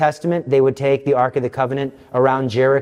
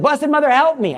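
desperate prayer; 12 semitones higher than usual. Retold or imitated. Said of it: "I was like".

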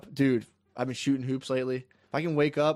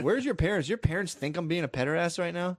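higher-pitched incredulous question; mock-worried protest, pitched up; exasperated questioning; 4 semitones higher than usual. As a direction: plead in a higher voice. Acts his worried aside to kids.

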